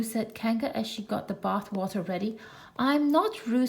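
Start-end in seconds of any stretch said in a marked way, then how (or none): 2.8-3.7 loud protest. Acted. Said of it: "said Piglet loudly".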